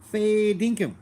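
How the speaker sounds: playful Australian Bogan accent. Shown as a demonstration. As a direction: ham up a broad Australian Bogan. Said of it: "accurate Bogan in, interpretations".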